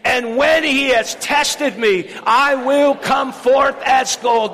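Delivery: preacher whipping the church into a loud proclamation; say it like you mean it. Shown as a demonstration. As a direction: proclaim it with full force. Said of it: "Come on, say it again".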